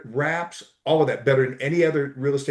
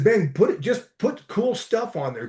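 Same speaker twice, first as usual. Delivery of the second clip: quoted advice; 5 semitones higher than usual. Retold or imitated. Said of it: "But I said".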